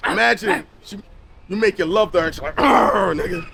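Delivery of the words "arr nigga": small dog bark voice; a yappy little dog growl; yappy chihuahua voice. Retold or imitated. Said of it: "why does it sound like a chihuahua".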